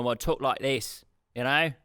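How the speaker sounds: put-on slipping into an Australian accent; light Australian twang. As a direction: say it like an Aussie by accident. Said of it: "Nope, that was Australian".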